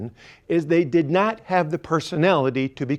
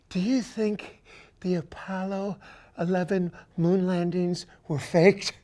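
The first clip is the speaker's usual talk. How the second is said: hushed; 6 dB quieter than usual. Retold or imitated. Whispered conspiracy question.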